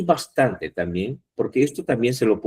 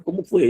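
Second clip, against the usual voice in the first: high-pitched example question on "Cómo fue"; question intonation; 9 semitones higher than usual. Shown as a demonstration. Teacher showing students what a question is, high questioning tone. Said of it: "Es una pregunta".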